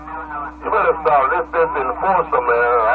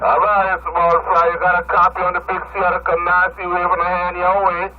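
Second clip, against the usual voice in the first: fuzz distortion; 4 semitones higher than usual. Real, not acted. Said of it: "That's why he sounds so distorted and muffled".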